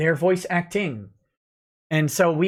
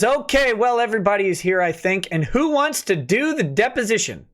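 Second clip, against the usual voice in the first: judge voice; 4 semitones higher than usual. Acted. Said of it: "The court says".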